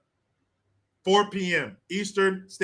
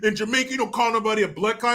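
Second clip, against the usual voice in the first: mad retort, mimicked in a higher pitch; higher-pitched mock indignation; 6 semitones higher, faster than usual. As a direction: imitate someone getting indignant, higher and quick. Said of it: "he gets all mad".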